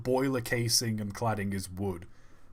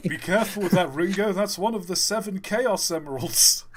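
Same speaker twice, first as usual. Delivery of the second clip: much higher, louder silly character voice; 8 semitones higher, 4 dB louder than usual. Pretend. Joking about Ringo's Chaos Emerald, high cartoon voice. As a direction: squeak it out like a cartoon. Mock Beatle joke voice.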